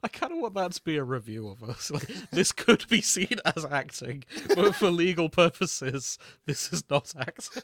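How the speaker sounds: laughing pompous pronouncement; mock review voice. Host mock-quoting a review of their own show, loud and hammy.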